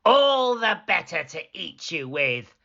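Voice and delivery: lightly snapped wolf line; wolf snapping. Acted. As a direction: bite off the words. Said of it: "snapped the wolf".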